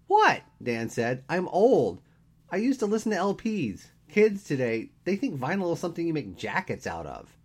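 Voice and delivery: high, loud melodramatic complaint; dramatic whine. A narrator's reading. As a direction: ham up the despair. Dan bemoaning age, hammed up.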